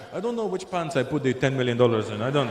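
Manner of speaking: lightly put-on Arab accent; puzzled rich man with a mild Arab accent. Rich Arab mislaid his millions.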